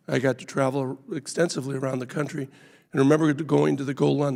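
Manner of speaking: hoarse from a sore throat. Real, not acted. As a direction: speak through a sore, raw throat. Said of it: "apologize for my voice today. I have a sore throat".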